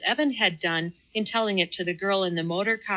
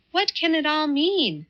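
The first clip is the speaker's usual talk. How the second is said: massive wonder; 9 semitones higher than usual. A narrator's reading. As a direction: ask in sheer bewilderment. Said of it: "in massive wonder".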